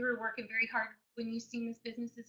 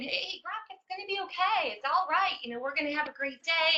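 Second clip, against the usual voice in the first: put-on higher, gentle voice to calm a crying baby; soothing baby talk; 5 semitones higher than usual. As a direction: coo it like a mom comforting her son. Mom soothing crying baby son.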